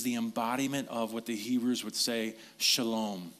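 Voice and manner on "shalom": "shalom" said as sha-LOM with a falling end; Hebrew word. Shown as a demonstration. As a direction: give "shalom" its Hebrew ring, stress on the second syllable. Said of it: "That's how they say peace".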